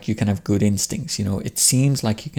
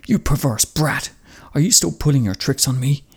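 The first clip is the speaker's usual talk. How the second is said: raised, outraged warlord voice; angry old father; 5 semitones higher than usual. Acted. Father scolding his defiant son, outraged. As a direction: bark it like a furious old lord. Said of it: "the father, Hidetora, says".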